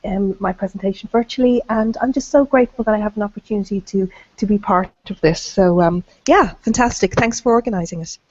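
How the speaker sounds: hoarse, croaky from bronchitis. Real, not acted. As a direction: speak with a sore, croaky throat. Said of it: "Excuse the croaky voice".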